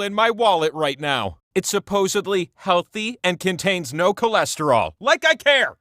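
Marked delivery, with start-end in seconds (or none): 5.0-5.8 high, loud scoff; scoffing retort. Acted. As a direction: toss it off with contempt. Scoffing at peanut health claims.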